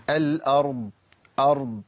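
"الأرض" ending in a faint continuing ض; soft flowing Dad. Shown as a demonstration. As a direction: let a little sound run in the ض of "أرض". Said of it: "فبيطلع من الفم بشكل بسيط". ("الأرض" بجريان صوت الضاد)

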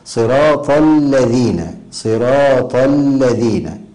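الذين with a firm, held double l, slow; doubled lām. Shown as a demonstration. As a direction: lean slowly on the shadda of الذين. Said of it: "التهاون في تشديد اللام".

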